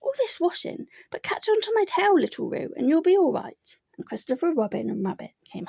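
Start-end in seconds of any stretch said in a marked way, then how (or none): 0.0-3.8 grumbling Eeyore. A narrator's reading. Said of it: "grumbling quietly to himself".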